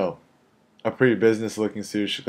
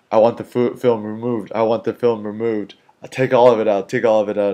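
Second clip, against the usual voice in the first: louder, pushy imitation of complaint; retold insistent demand; 5 dB louder than usual. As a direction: imitate someone demanding, punching each order. Retelling the woman's repeated demands.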